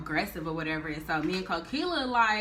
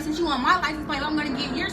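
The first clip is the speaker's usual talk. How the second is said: higher, louder tit-for-tat; defiant comeback; 7 semitones higher, 4 dB louder than usual. Retold or imitated. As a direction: throw it back at him, louder. Mama Michelle turning the tables.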